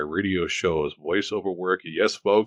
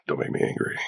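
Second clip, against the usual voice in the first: mock menace; faster than usual. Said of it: "You wouldn't like me when I'm angry".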